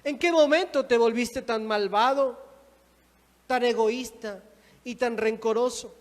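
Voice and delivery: loud accusing question; stern rebuke. Acted. God confronting an unforgiving believer, sternly reproachful. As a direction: press each accusation home loudly.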